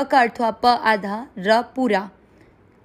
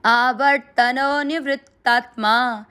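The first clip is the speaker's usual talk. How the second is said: measured chant, आवर्तनो stressed; slow recitation; slower than usual. Shown as a demonstration. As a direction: recite the verse slowly. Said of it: "पूरे श्लोक का उच्चारण एक साथ".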